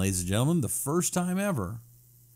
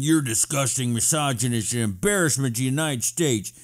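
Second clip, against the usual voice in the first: mock lawyer quote. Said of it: "The, uh, third-rate lawyer said".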